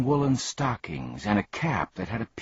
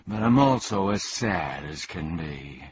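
sighed. Acted. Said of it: "and sighed".

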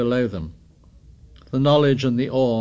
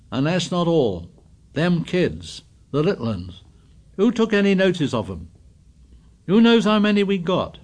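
raised, reproachful voice; indignant scolding; 6 semitones higher, 3 dB louder than usual. A narrator's reading. Piggy reproaching the boys, raised and indignant. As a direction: accuse them hotly.

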